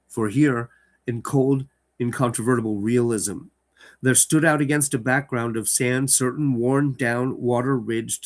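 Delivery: measured dramatic reading; story narration. Acted. Host reading Lovecraft aloud to his audience, dramatic narration. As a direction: read the horror tale to listeners.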